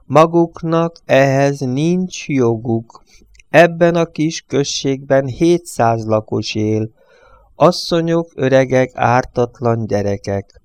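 slow, earnest plea of a village priest; a priest imploring the drivers, slow; pleading priest. Acted. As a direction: beg them slowly for the villagers' souls.

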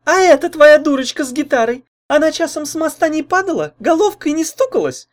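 put-on high, loud, taunting girl; mocking. A narrator's reading. Jealous girlfriend mocks his story and the rival, high and taunting. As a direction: ridicule every word, sing-song scorn. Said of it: "продолжала издеваться Лайда".

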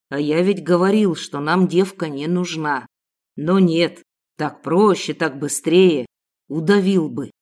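low muttered complaint; grumbling kidnapper. A narrator's reading. Kidnapper complaining about the girl, low muttering. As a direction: grumble it to yourself. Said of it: "пробормотал".

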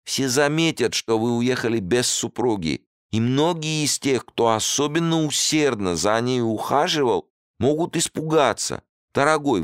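high, urgent host voice; insistent host. A narrator's reading. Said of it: "не унимался".

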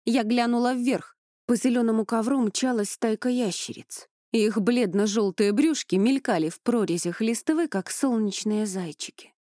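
ordinary delivery

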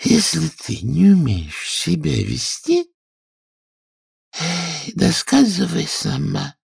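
high, slow, grumbling squeak; sulky Dormouse mutter. Acted. Dormouse grumbling at rude Alice, sulky and slow. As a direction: sulk at being interrupted. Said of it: "угрюмо пробормотала".

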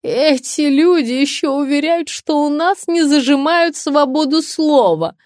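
high, loud, indignant yelp; squawking protest. A narrator's reading. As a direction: protest shrilly while being held. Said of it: "попыталась вякнуть она".

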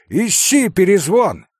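put-on sudden loud boyish cry; shout. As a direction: bark the order out. Kolya shouts at the dog.

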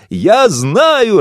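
high, loud gleeful cry; joyful shout. Acted. Daughter joyfully shouts her guess to her father. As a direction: shout it out in delight. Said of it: "радостно закричала дочь Васо".

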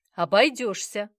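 loud playful refusal; joking brush-off. A narrator's reading. Grandfather teasing his wife over the toddler, joking. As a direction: tease her as you turn her down. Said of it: "шутливо бросил ей Сомов".

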